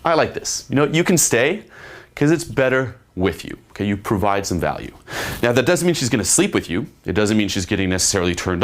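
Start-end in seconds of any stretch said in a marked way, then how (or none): 0.0-3.6 mock girly voice, pitched higher; gushing like a charmed girl; impressed girl. Imitating a girl who enjoys his company, high and eager. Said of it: "it's like".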